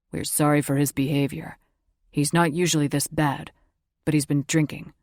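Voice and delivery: lightly voiced brother, apologetic; a hint of an embarrassed older brother; apologetic young man. Narrator voices Rain.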